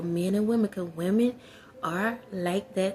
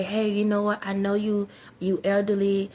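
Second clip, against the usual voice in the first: bluntly tactless offer to a neighbor; blunt wording. Shown as a demonstration. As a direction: say it straight out with no tact. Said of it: "You ain't gotta say it like that".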